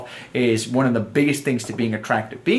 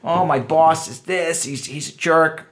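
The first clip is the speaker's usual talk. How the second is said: slow, lightly imitated grumbling; a touch of mock grievance; mock complaining; 2 semitones higher, slower than usual. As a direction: imitate her complaining, drawing it out. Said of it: "if she starts complaining about her boss".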